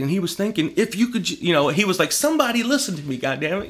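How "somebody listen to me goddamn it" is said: high, strained cry for attention; mock frustrated plea. Engineer pleading nobody listens, mocked high. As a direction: voice him begging to be heard. Frustrated inventor voiced in story.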